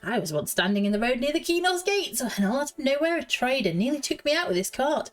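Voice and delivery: professor telling an indignant anecdote, pitch swooping; lightly voiced fussy professor. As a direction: warn them like a mildly affronted professor.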